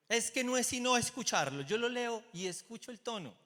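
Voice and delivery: high, loud emphatic claim; excited. Real, not acted. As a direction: stress it with rising energy. Keeps the raised voice. (dice con énfasis, más alto y fuerte)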